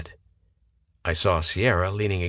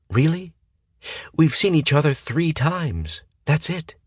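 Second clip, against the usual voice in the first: 1 indignant; 9 semitones higher, 3 dB louder than usual. A narrator's reading. Sierra angry retort.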